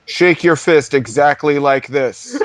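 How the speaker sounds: hammed-up DJ instruction, slow; mock DJ voice. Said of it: "a D J with a long ponytail going".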